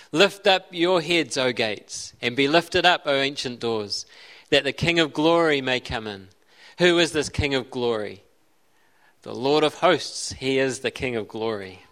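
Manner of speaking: measured, declaiming psalm reading; solemn Bible reading voice; scripture reading. Acted. Reads the psalm again.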